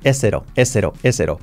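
"is it on" linked into "es cero"; t como erre. Shown as a demonstration. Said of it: "La T como R suave". ("is it" unido, t como erre suave)

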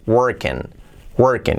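"working" ending in "-ken", the I said like an E. Shown as a demonstration. Teacher shows the pronunciation, "working" ending like "-ken". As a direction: say "working" with an E in the last syllable. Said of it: "es una E".

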